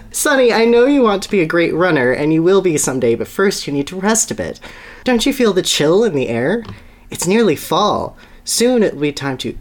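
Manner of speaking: lightly voiced mom coaxing her son to rest; mother's voice. Mother urging Sonny to rest, coaxing. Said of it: "his mother called".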